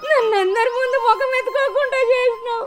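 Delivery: sobbing accusation; tearful, broken complaint; crying lament. Acted. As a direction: weep the blame onto him. Mother keeps crying at son.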